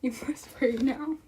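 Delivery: fast, sly whisper; teasing whisper. Pretend. Streamer whispering a mock threat to chat. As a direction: hiss it out mischievously.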